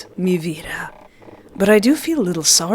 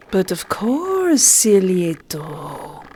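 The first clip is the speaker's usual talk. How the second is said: smug drawl; much slower than usual. Acted. Villain says nickname slowly.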